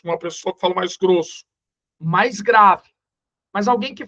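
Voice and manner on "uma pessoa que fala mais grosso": thick deep voice demo. Shown as a demonstration. Teacher to his students, demonstrating a thick deep voice. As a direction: put on a thicker, deeper-sounding voice.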